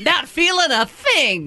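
slow, laughing line. Real, not acted. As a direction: laugh through it. Laughing about the pills.

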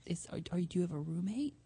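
unvoiced whisper, leaning into the phone. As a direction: hush it like someone might hear. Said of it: "why are you whispering like that".

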